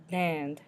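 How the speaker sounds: French Dinde, nasalised before the final D; nasal N. Shown as a demonstration. Teacher shows the French for turkey, nasal N in Dinde. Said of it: "hear that nasally N in the middle".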